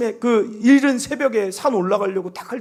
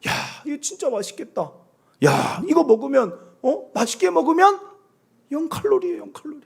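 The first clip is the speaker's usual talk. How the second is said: admiring eater; 6 semitones higher than usual. Retold or imitated. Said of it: "감탄하라니".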